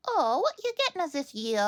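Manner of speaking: put-on high, lilting go at a Welsh accent; attempted Welsh accent. Fan quoting the show in an attempted Welsh accent. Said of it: "I can't do the Welsh accent".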